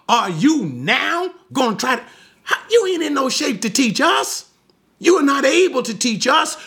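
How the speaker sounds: high-pitched mock indignation; offended Pharisees. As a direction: play scornful Pharisees scolding an upstart. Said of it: "they became even more offended at him".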